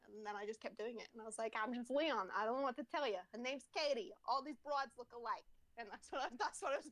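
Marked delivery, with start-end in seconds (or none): 1.6-5.5 lightly voiced cartoon American cop; Leon Kennedy. Game hero excusing wrong name, mock American accent. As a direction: shrug it off in a put-on American accent. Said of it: "made fun of Leon Kennedy".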